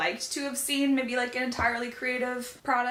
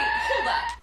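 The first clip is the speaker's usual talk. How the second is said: excited; 6 dB louder than usual. Real, not acted. Excited interruption about animals.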